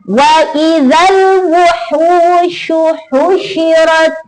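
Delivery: slow chant, "husyirat" read without added stress; teaching demo of "wuhusyu husyirat"; stressed recitation. Shown as a demonstration. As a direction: keep "husyirat" light, no tasydid. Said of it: "Tidak ada tekanan di situ".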